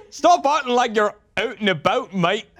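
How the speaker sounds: mock Canadian accent. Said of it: "kinda Canadian".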